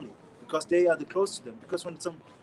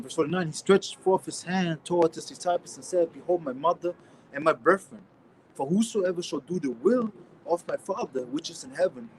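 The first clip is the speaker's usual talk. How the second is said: scripture reading; 4 dB louder than usual. Acted. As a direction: read the verse out like from the pulpit. Reads scripture aloud.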